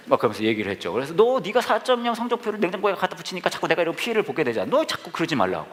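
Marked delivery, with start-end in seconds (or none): 1.1-5.7 mock-annoyed complaint, pitched up at the start; retold angry scolding. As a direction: act out scolding her, only mildly heated. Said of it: "막 화를 내면서 얘기했단 말이에요". (화내며 따지던 말을 가볍게 흉내)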